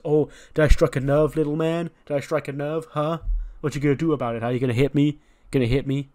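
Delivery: mock taunt, pushing for a reaction. Dom goads livid Ray face to face, taunting.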